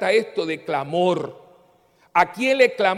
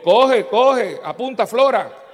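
burla con risa; 5 semitones higher, 6 dB louder, slower than usual. Real, not acted. Burla alegre tras respuesta.

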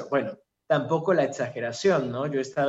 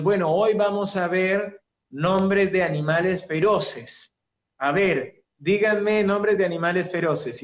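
teacher voice; 4 semitones higher, 4 dB louder than usual. Retold or imitated. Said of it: "la maestra de preescolar".

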